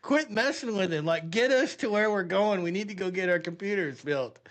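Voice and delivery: amused exasperation, starting high; retold exasperated cussing. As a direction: imitate fed-up buddies telling someone off. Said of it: "the G Is are cussing me".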